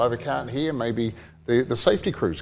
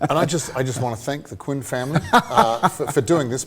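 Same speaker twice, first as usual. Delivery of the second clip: laughing. Real, not acted.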